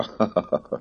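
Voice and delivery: throaty cruel laugh; a cruel laugh from the wall; throaty cackle. Acted. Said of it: "torokhangú nevetés". (torokhangú gonosz kacaj)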